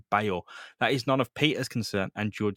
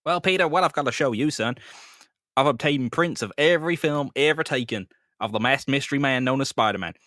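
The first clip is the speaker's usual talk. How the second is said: Captain Stacy voice; 2 semitones higher than usual. Acted.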